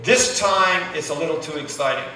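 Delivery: imitating his wife, soft and calm amid the storm; quietly deadpan, as if nothing is wrong. Wife to husband, in a sinking canoe, in a calm voice. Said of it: "She said in a really calm voice".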